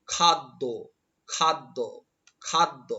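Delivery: খাদ্য as "khad-do" with doubled d; pronunciation demo. Shown as a demonstration. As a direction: sound out খাদ্য in two separated beats. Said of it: "এভাবে উচ্চারণটি লিখতে হবে".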